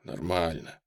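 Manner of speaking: put-on boy in pain forcing out an answer; forced out. A narrator's reading. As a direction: squeeze the word out through pain. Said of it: "выдавил я".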